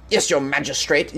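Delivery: a light mock English accent on magistrate. Shown as a demonstration. Addressing the magistrate in a mock English accent. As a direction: courtroom formality in a hint of English accent. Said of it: "You must say that with an English accent".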